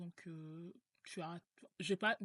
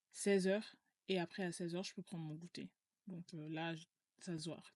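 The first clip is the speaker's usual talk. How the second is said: talking with a mouthful; mouth full. Real, not acted. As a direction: chew while you speak. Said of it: "la bouche pleine".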